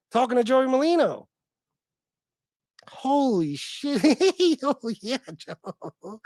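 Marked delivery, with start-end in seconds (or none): 2.9-6.2 giddy. Retold or imitated. Streamer imitating a host's excitement at talking to Joey, giddy. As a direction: imitate a man giddy with delight, breaking into giggles. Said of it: "giddy to be s-, like, something like what I just did".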